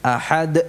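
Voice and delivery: ahad with a too-strong bounce; over-bounced dal. Shown as a demonstration. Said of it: "tidak usah terlalu kuat". (ahad dengan pantulan berlebihan)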